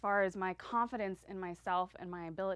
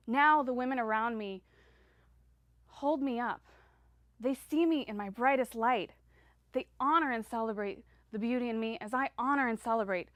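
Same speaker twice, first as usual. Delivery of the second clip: louder, swelling delivery; 6 dB louder than usual. Acted. Speaker to audience, swelling louder with conviction. Speech rising to empowered peak.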